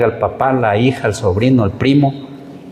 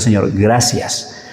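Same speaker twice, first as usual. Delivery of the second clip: grateful prayer; 3 semitones lower than usual. Retold or imitated. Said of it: "agradeciendo a Dios".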